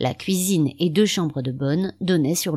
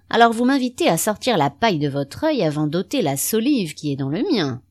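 sneering; 3 semitones higher, 4 dB louder than usual. Acted. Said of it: "avec une sorte de ricanement".

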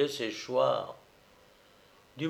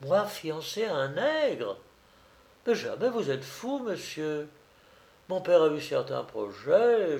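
mildly acted indignation, rising at first; a touch of affronted disbelief; indignant exclamation; 2 semitones higher than usual. Estelle refusing the supposed fiancé, mildly indignant. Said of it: "s'écria Estelle, retrouvant la parole".

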